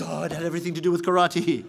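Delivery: low-pitched awed punchline; dawning realisation. Acted. Student realising after blocking the hit, low amazed voice.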